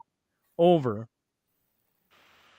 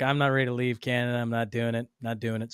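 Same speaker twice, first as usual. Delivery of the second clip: a lightly put-on, slightly lower voice for a friend, half mumbled; badly faked Peter impression, lower and trailing off quiet; quick, lazy imitation of a friend refusing to leave Canada; terrible Peter accent; 3 semitones lower, 3 dB quieter than usual. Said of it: "that's a terrible Peter accent".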